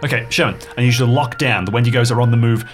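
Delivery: urgent orders. Acted. Urgent orders over the radio.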